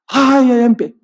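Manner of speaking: put-on crybaby "ay, ay"; mock wailing. Debtor starts his tearful act before his lord, mock wailing. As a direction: whine like someone making a big tearful scene. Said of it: "forma la llorona".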